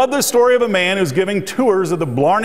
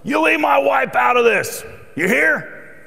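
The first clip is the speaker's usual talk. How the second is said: indignant retort; 8 semitones higher than usual. Retold or imitated. Worker defending his wife to a coworker, indignant shout. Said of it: "His reply was".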